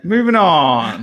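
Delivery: slow exaggerated New Zealand accent. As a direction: ham up a Kiwi accent, drawn out. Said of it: "Quit making fun of Stuart's accent".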